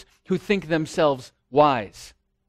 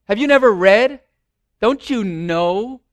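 forceful rebuke; 3 semitones higher, 5 dB louder than usual. Retold or imitated. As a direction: drive the question home to them. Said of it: "He says".

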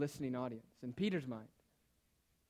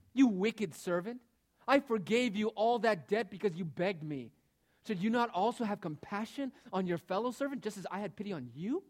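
angry master; 4 semitones higher, 4 dB louder than usual. Acted. Master rebukes the wicked servant.

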